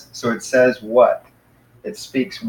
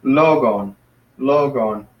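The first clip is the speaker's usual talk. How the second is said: LOgon, first syllable stressed; front stress; slower than usual. Shown as a demonstration. Teacher showing "logon" has its accent in front, first syllable stressed. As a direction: lean on the LO of "logon", letting the end drop. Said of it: "it's on the front end".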